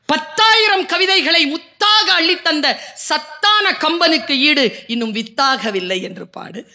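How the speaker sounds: slow, lifted verse recitation; slow reverent verse; poem recital. Acted. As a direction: intone the lines in praise.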